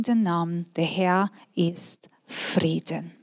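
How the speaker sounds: measured Bible reading to the congregation; preacher reading Judges to the church; scripture reading. Acted. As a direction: read the passage aloud in a lightly heightened voice. Reads the Bible passage aloud.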